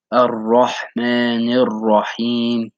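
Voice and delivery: "Ar-Rahmanir Rahim" slowly, with a throaty ha; slow recitation. Shown as a demonstration. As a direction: recite the verse slowly as a model. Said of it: "the third verse of Surah Al-Fatiha".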